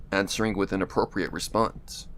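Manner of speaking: usual speaking voice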